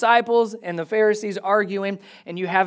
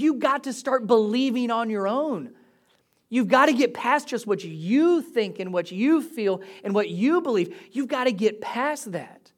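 raised pitch, insistent scolding; exasperated; 4 semitones higher than usual. Acted. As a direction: press the point with annoyance. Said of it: "a little sarcastic and annoyed at times".

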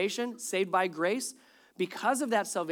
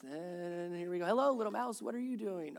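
reading on autopilot; 2 semitones lower, 8 dB quieter than usual. Retold or imitated. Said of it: "in my sleep, I just".

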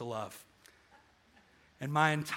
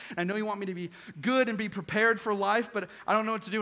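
higher, louder rush of worried words; anxious outpouring; 4 semitones higher, 3 dB louder than usual. Retold or imitated. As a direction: pour it all out to mom at once. Retelling panicked call to mom.

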